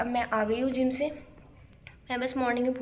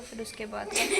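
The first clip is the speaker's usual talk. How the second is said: laughing; 2 semitones lower, 6 dB quieter than usual. Real, not acted.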